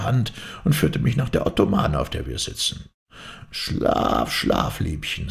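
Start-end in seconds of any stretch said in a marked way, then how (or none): 3.5-5.3 a spirit hushing her gently to sleep; soothing whisper. A narrator's reading. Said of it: "sagte er".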